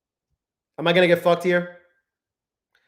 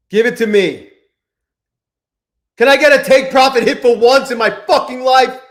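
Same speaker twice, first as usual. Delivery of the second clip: desperate plea; 6 semitones higher, 6 dB louder than usual. Real, not acted. Begging for take profit hit.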